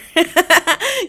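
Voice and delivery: high burst of laughter. Real, not acted. Storyteller amused by her own taunt, high laugh. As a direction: crack up at your own line. Cracks up between takes.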